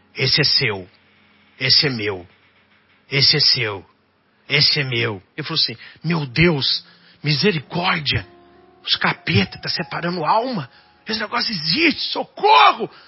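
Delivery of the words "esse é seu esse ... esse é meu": low, dropped voice. Telling a story of what a policeman heard by the cemetery wall: said softly. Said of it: "ele escutou baixinho assim".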